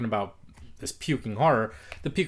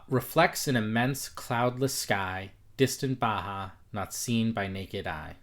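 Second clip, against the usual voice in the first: lee los versos despacio y marcando el ritmo; slow, measured reading; slower than usual. Shown as a demonstration. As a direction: pronounce each syllable evenly, slowly. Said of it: "take away one word and see how much better".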